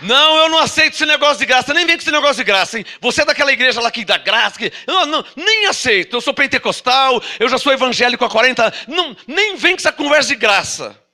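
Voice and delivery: um toque de crente indignado, um pouco mais agudo; crente teimoso. Retold or imitated. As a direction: imite de leve o irmão que recusa a graça. Voices a stubborn Pentecostal objector. (pregador imitando de leve o crente pentecostal que rejeita a graça)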